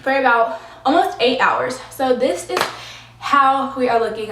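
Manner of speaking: out of breath after climbing stairs; panting a little between phrases. Real, not acted. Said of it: "I'm sorry, I'm out of breath".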